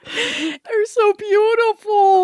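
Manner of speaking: stretched slow, loud and high, near tears; drawn out, overcome with emotion; gushing. Real, not acted. Cohost swooning over the heroes' bond, slow tearful gush.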